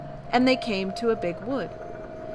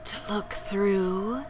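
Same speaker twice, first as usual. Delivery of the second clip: slow creature voice; slower than usual. Acted. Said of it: "the creature answers".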